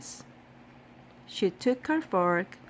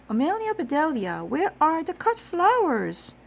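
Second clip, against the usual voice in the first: calling out; 9 semitones higher, 5 dB louder than usual. A narrator's reading. Mrs Rogers calling for flowers.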